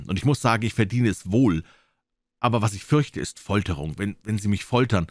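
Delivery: lightly voiced boy confessing to the doctor; pleading boy. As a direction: ask to be spared, a touch of distress.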